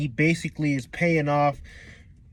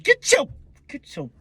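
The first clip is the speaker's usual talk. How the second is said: high, strained mock-angry grab; acted exasperated outburst, pitched up; rough ordering; 10 semitones higher than usual. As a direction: order him over in hammed-up anger. Acts two bullies grabbing Buggy.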